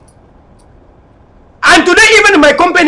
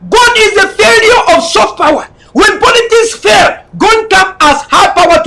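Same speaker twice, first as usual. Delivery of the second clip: fiery speech; 2 semitones higher than usual. Real, not acted. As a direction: preach it to the crowd at full force. Fiery political address to audience.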